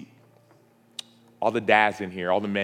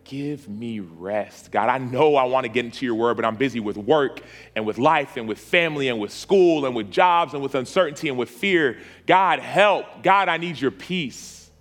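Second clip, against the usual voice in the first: led prayer building. Acted. Pastor praying for the weary, rising plea then hush.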